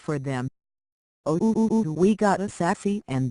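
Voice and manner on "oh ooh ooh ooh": teasing ooh. Acted. Teasing the sassy reply.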